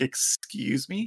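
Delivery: drawn-out, rising question; mock disbelief. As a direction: stretch it out as if taken aback. Retold disbelief at surprise retest.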